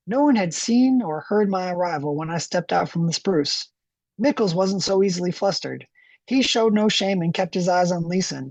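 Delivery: lightly voiced lumberjack narrating. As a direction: read it like a plain-spoken lumberjack. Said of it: "I read this to myself in a lumberjack voice".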